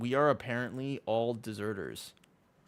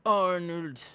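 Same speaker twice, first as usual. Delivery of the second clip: clumsy attempt at an Austrian Arnold accent; lightly voiced Austrian Arnold accent, given up fast; half-hearted Austrian Arnold impression; bad Arnold accent. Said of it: "I can't do that accent".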